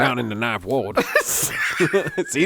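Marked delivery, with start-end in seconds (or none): 0.0-1.0 lightly imitated New Orleans accent; a hint of a Ninth Ward local; New Orleans documentary voice. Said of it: "couldn't stop doing that voice".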